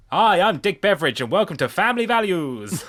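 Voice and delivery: light game show host voice; cheesy host greeting, lightly done. Pretend. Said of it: "sounds like a game show host".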